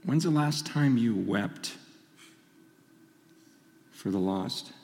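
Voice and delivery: low, hushed and heavy; solemn, subdued. Real, not acted. Preacher asking congregation about weeping for the lost, solemn and hushed. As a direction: speak low and soft, weighing each phrase. Solemn question and confession of grief.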